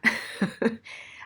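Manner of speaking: short breathy laugh, no voicing; amused laugh. Real, not acted. Teacher amused by an unsayable string of consonants, laughing. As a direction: laugh at the impossible cluster. Amused by unpronounceable letter cluster.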